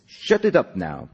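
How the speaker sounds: put-on slow scolding in an Eastern European accent; drawn-out command, Greek accent slipping eastward; botched Greek accent. A narrator's reading. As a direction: silence the class in a would-be Greek accent. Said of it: "kind of more Eastern Europe than Greek".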